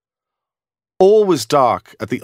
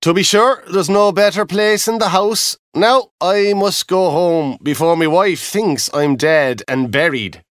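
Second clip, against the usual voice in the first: higher, breezy farewell; a lightly voiced easygoing Irish guard; cheery guard; 5 semitones higher than usual. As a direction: brush it off lightly and go.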